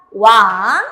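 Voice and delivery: "Wan" said loud and clear, ending on a ringing ng; model pronunciation. Shown as a demonstration. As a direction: model the syllable "Wan" with a full nasal ending. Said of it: "¿cómo se va a pronunciar esta sílaba?".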